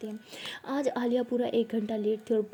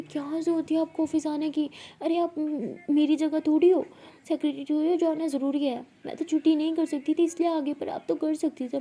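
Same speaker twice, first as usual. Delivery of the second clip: higher, louder worried telling-off; fond scolding; 5 semitones higher, 4 dB louder than usual. Acted. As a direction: scold her for not resting. Scolding sick boss for coming.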